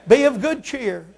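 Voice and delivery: shouted exhortation. Shown as a demonstration. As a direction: bellow Be of good cheer.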